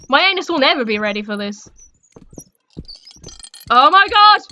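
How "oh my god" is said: loud startled gasp of words; jolted outburst; startled exclamation. Real, not acted. Sudden scare.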